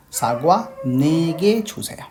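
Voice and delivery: slow, careful Korean model sentence; slow model phrase. Shown as a demonstration. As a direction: say it slowly, rising at the end. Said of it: "सागवा ने अगर गे आप नहीं लगाएंगे तो". (धीमा, उठता हुआ उच्चारण)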